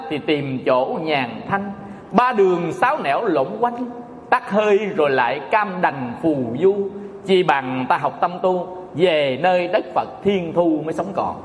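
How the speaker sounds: reciting verse. Acted. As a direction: stretch each syllable like chanted poetry. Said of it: "có câu thơ á". (ngâm thơ chậm rãi)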